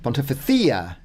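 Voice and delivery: Castilian th for the c; Castilian pronunciation. Shown as a demonstration. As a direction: lisp the c like th in "Pontificia". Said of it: "thia in Espanol or Castellano".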